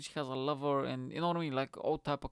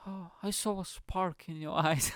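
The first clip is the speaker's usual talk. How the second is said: higher, mock-dreamy recital breaking into a laugh; mock love-letter voice; 5 semitones higher than usual. Man mocking her sappy text, laughing mock-romance. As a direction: gush it like a love note, unable to keep straight. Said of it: "who the fuck talks like that?".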